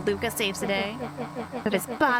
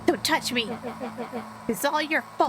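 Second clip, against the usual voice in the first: bitter, hurt outburst; dejected anger; 2 semitones higher than usual. Acted. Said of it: "Iggy's tone jolted to dejected anger".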